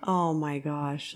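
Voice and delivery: slow, understated disbelief; quietly stunned retold reaction. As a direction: let it sink in slowly. Own reaction to tiny wages.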